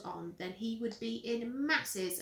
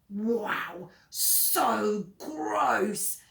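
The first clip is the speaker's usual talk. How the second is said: loud, delighted yuck; gleeful disgust; 8 dB louder, much slower than usual. Acted. Henry opening the mummy kit, loud gleeful disgust. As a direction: relish the grossness.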